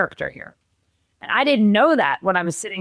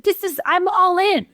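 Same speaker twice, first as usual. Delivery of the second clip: imitating her partner; 11 semitones higher than usual. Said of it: "And he goes".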